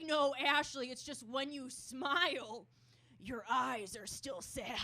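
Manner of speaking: slow, emphatic imitation of dad; explaining dad. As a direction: spell it out slowly as a dad would.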